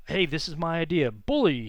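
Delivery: Teddy Roosevelt impression. Teacher imitating Teddy pitching ideas in a room, booming. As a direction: ham up Roosevelt's gusto, ending on a punchy Bully. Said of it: "He would talk like this".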